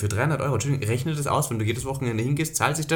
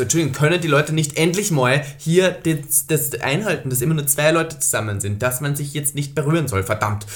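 loud mock scolding; exasperated shouting; 3 semitones higher, 5 dB louder than usual. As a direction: rant indignantly at strangers down in the street. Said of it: "dann schreie ich immer vom Balkon herab". (gespielt empörtes Schimpfen)

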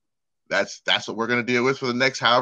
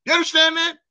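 mock racist taunt; 8 semitones higher than usual. Mocking racist voice.

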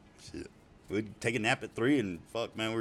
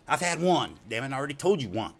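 exasperated insistence; 6 semitones higher, 5 dB louder than usual. Retold or imitated. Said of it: "he said".

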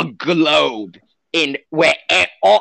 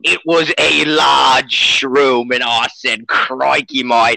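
mock Australian accent. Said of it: "he's Australian, if you can't tell".

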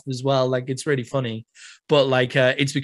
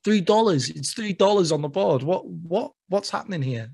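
higher-pitched, stumbling confusion; mock bewilderment; 5 semitones higher than usual. Tourist charged extra at the counter, acted bewilderment. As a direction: stammer like a baffled customer.

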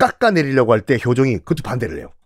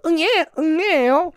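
high squeaky newborn wail; mock baby cry; 13 semitones higher than usual. Lecturer imitating a newborn crying, high and squeaky.

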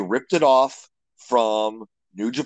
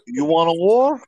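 Razor Ramon taunt, bigger; 5 semitones higher, 4 dB louder than usual. Shown as a demonstration. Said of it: "best Razor Ramon impression".

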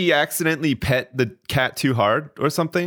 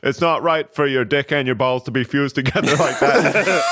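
laughing mock doctor. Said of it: "be like".

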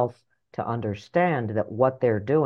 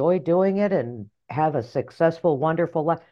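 high, singsong gushing pep talk; hammed-up cheerleading inner voice; mock encouraging voice; 6 semitones higher than usual. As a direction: gush in a put-on sweet high voice. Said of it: "That voice never says anything like".

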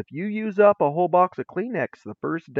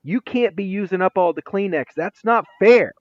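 higher, louder teacher reprimand; acted scolding; 5 semitones higher, 4 dB louder than usual. Teacher to student using all the Kleenex, mock scolding.

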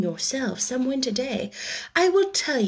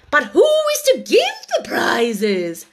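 louder, eager questioning; chorus of voices; 5 semitones higher, 5 dB louder than usual. A narrator's reading. The animals ask the Dodo, eager. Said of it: "quite a chorus of voices asked".

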